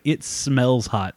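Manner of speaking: slow, drawn-out deadpan verdict at normal pitch; mock deadpan salesman. Salesman sniffing the clutch, slow mock deadpan. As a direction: drag the words out, lightly imitating. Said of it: "he was like".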